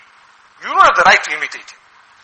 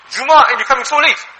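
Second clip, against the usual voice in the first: mild rebuke; 7 semitones higher, 4 dB louder than usual. Retold or imitated. Umar rebukes Usman from the mimbar.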